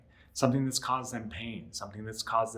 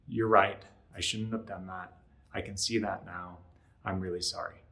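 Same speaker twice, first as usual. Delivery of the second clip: mock sincere; 3 semitones lower than usual. Shown as a demonstration. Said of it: "make it sound more sincere".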